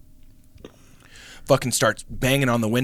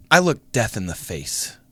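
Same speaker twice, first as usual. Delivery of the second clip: unruffled, falling to a lower, softer finish; nonchalant; 5 semitones lower, 3 dB quieter than usual. Retold or imitated. Girl rolls her window up on the gunman, mock nonchalant. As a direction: say it coolly, imitating someone fearless. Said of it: "nonchalant, right? And goes".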